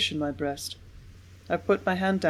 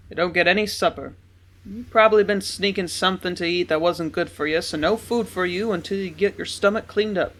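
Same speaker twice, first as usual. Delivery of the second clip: stern father; 4 dB louder than usual. A narrator's reading. Father punishes daughter.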